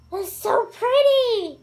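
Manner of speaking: high, loud gush through a laugh; delighted gush. Real, not acted. Beauty vlogger thrilled by her favorite YouTuber's highlighter, laughing gush.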